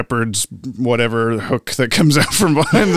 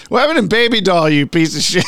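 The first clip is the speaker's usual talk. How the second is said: higher, fast mock yell; mock jab at a friend; mock outburst; 5 semitones higher, faster than usual. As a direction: playfully rush it at him.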